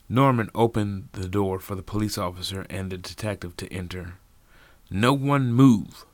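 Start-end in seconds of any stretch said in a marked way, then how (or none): 4.9-6.1 commanding order. A narrator's reading. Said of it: "the detective said".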